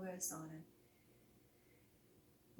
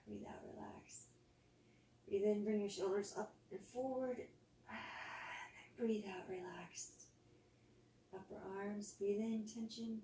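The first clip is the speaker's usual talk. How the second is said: soft guided body scan, exhales whispered; calm yoga teacher voice easing the class into rest; guided relaxation; 4 dB quieter than usual. Acted. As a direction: lead them gently through tensing and letting go.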